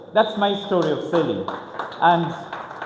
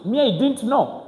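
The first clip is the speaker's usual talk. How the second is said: ordinary delivery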